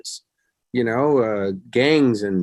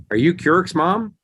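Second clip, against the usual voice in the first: slow, higher-pitched question; retold curious greeting; 6 semitones higher, slower than usual. Movie star approaching his friend's mother, retold curious greeting. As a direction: draw out the question, rising as it goes.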